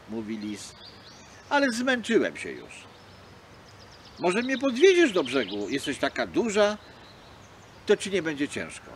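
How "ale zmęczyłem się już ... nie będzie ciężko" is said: a hint of a tired fox asking; lightly voiced fox begging for help; pleading fox. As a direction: coax the seal into a ride. Fox begs seal.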